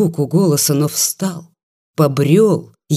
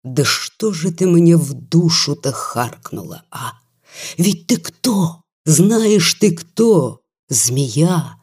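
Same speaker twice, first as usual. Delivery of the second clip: put-on angry drunken shout; slower than usual. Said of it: "стал кричать, топая ногами доктор".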